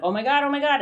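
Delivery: mock panic. Writer stretching past comfort, in mock panic. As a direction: act out the stretch of fear, lightly.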